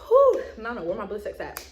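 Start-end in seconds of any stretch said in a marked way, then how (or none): 0.1-0.4 big exhale of relief; breathless whew. Real, not acted. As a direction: blow out a tired breath. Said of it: "I'm out of breath".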